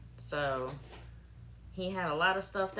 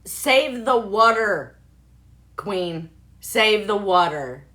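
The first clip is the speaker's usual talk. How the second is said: calling out; 11 dB louder, slower than usual. Real, not acted. Calling out a slogan.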